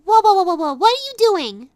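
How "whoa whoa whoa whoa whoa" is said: loud startled protest; startled whoa. Acted. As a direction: stop them in alarm. Master reaches to scratch her.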